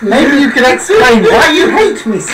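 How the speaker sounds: earnest confrontation breaking into laughter; indignant stiff stranger. Acted. Tabitha challenging the barman's prejudice, half laughing. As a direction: press him on it while barely holding a laugh.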